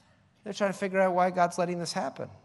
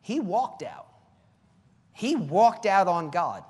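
He walked out, with He punched hard; pointed correction that lands on He; stress on HE; 5 dB louder, slower than usual. Shown as a demonstration. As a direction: hit He and let the rest fall. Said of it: "God never threw him out".

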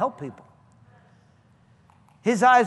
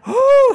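very high, loud release whoop; relieved whoop; 14 dB louder than usual. Retold or imitated. Healed man after the demon let go, loud joyful whoop. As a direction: let out a sudden freed whoop. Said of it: "and he went".

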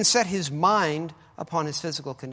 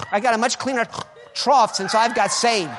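mock boast; 6 semitones higher, 9 dB louder than usual. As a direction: belt it out like a proud convert, chuckling. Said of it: "that's their boast".

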